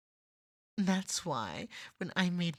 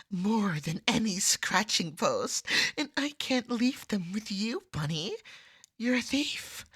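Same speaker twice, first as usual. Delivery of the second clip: heated accusation; 4 dB louder than usual. Acted. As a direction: pitch up and call her a thief. Marcy accuses Bunny of theft.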